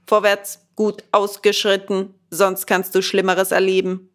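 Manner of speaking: loud military order; soldierly command. Acted. Gendarmes command Bengele to march, loud and military. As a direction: bark it like a drill sergeant. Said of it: "kommandierten nach Soldatenart".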